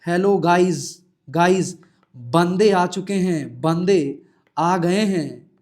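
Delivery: slow, loud vlogger greeting; hammed-up gamer streamer hello; lightly voiced gaming YouTuber; mock YouTuber intro. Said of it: "ऐसा तो नहीं लिख सकते हैं".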